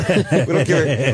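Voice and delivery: "We don't care" drawn out slowly through a laugh; new rulers renaming the country, slow and laughing; slow laughing repeat. Retold or imitated.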